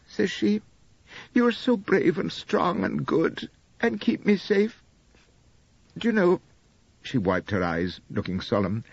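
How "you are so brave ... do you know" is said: higher, sweet wifely voice, tearful devotion; a gentle hint of a doting young wife; lightly voiced young wife, adoring. Narrator voices Elspeth.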